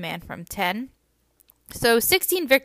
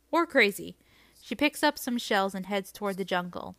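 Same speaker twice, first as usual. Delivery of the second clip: story narration. A narrator's reading. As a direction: read the passage gently. Reading a passage from the book.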